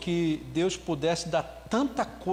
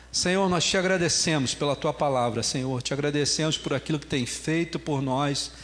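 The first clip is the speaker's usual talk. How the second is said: earnest congregational prayer, lower and steady; 3 semitones lower than usual. Acted. Preacher prays to the Lord for the congregation, reverent. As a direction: pray over the church with reverence.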